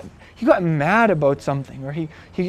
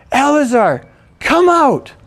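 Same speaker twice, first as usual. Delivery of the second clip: loud, high commanding call; retold shout; 7 semitones higher, 5 dB louder, slower than usual. Yeshua commands Lazarus from the grave, loud high shout. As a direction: call him out of the tomb, rising on come out. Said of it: "he shouted, it says".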